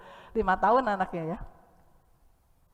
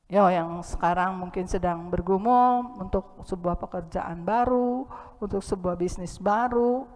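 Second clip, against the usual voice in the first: usual speaking voice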